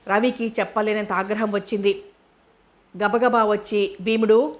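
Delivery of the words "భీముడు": sharp raised call of a name; angry summoning shout. Acted. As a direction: bark the name out across the room. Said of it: "ఒక్క అరుపరిచాడు".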